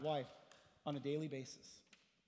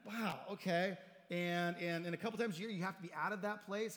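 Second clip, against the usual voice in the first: amused disbelief; 2 semitones higher than usual. Retold or imitated. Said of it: "he's just laughing".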